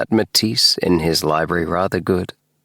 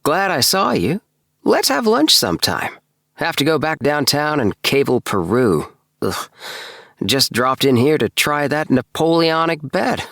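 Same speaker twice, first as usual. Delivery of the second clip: a bit higher, eager businessman voice; chirpy hurried fellow; lightly voiced Appleby; 7 semitones higher than usual. A narrator's reading. Narrator voicing Appleby saying goodbye, lightly eager.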